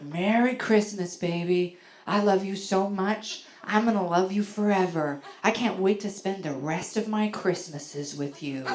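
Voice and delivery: imitating a sincere, adoring boyfriend; lightly acted heartfelt declaration; genuine, thoughtful. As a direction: say it earnestly, like a devoted lover. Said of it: "so genuinely, so thoughtfully".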